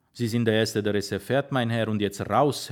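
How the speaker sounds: ordinary delivery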